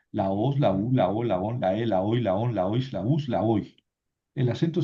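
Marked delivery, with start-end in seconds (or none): 0.1-3.7 "la OS, la U, la O", chanted as a steady drill; accent fixed on the last syllable of each "la oi" form; stress on final syllable. Shown as a demonstration. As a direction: recite "la os, la u" evenly, each ending stressed. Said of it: "El acento no se mueve nunca".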